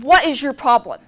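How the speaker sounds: retold car wash fight, half laughing; confrontational. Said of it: "I get in her face like this".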